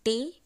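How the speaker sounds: "टे" alone as the first sound of टेबल; syllable by syllable. Shown as a demonstration. Teacher counting sounds in table, "टे" said on its own. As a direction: say "टे" as one separate syllable. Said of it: "दो sound आएगा".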